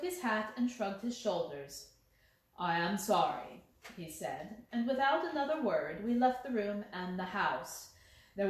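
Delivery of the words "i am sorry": calm insistent Holmes. Acted. Holmes leaves.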